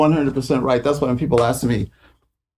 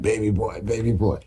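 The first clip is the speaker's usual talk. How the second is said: put-on softer, fond "baby boy"; soft late-night call; 6 dB quieter than usual. Sly calling him late at night, soft and fond. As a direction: croon it gently down the phone. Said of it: "He would call me in the middle of the night".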